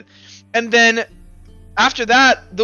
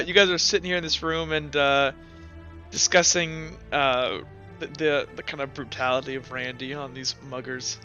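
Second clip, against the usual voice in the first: lower, softer recap with hesitant pauses; game master scene-setting; 6 semitones lower, 8 dB quieter than usual. Acted. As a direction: set the scene quietly for the players.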